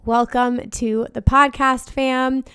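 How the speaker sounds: hoarse after a wild weekend; worn-out party voice. Real, not acted. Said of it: "So sorry for the party girl voice".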